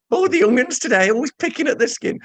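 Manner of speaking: put-on grumpy old person. Mock grumbling about young people.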